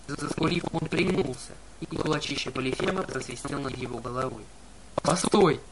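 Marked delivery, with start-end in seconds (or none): 5.0-5.6 pleading. Acted. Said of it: "взмолился Грувер".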